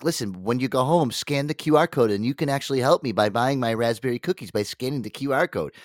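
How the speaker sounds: lightly voiced eager young Girl Scout pitching; a hint of a little girl selling cookies; Girl Scout sales pitch. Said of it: "was that your impression of a brownie making her best pitch".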